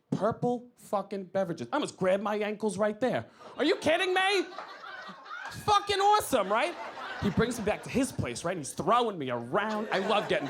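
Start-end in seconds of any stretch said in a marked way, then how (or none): 3.6-6.7 excited. Acted. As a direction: gush with glee. Excited about purple drinks.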